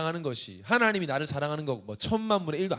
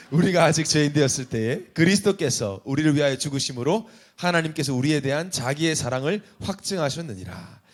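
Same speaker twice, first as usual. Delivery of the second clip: scripture reading; 4 semitones lower, 3 dB louder than usual. Shown as a demonstration. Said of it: "내가 읽겠습니다".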